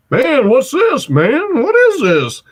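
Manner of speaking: high, wide-eyed puzzled voice; amazed. Retold or imitated. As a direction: ask it like you've never seen it. Big guy asking amazed.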